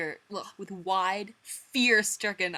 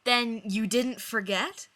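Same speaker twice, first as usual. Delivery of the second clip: slow, high and loud, moved; touched Joey; 6 semitones higher, 8 dB louder, slower than usual. Acted. Joey moved that Chandler remembered, slow and high. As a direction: stretch it out, overwhelmed.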